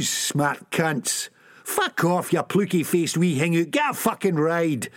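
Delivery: ऊँचे सुर में गुर्राते हुए; चिढ़ाकर झिड़कना; snarling. Acted. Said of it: "Sick Boy snarled".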